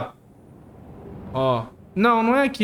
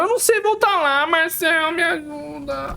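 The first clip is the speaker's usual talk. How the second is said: panicking gamer; 4 semitones higher than usual. Real, not acted. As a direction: beg for help, scared. Begs friend for help.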